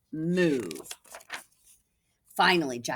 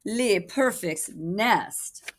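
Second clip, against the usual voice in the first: mock French; 3 semitones higher, much slower than usual. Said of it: "she cried".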